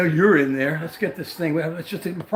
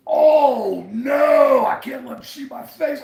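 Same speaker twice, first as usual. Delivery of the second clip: mock panicked friend; 7 semitones higher, 6 dB louder, slower than usual. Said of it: "they're all out there".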